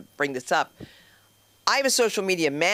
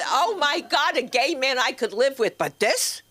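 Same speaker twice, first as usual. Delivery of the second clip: high, raised sister-in-law voice; a would-be aside, said out loud; mock failed whisper; 7 semitones higher, 3 dB louder than usual. Sister-in-law commenting on the newcomer, failed whisper. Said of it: "Can't whisper".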